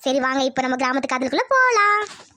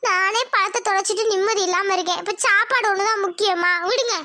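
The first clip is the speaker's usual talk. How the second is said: refusing wife; 4 semitones higher than usual. Acted. Wife refusing food husband offers, upset. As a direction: push his hand away, upset.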